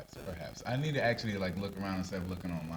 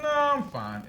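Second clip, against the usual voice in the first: higher, firm polite refusal; unthreatening but firm; 6 dB louder, slower than usual. Retold or imitated. Answering like his father would, higher and firm. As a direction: shut it down politely but finally. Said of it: "unthreatening but firm".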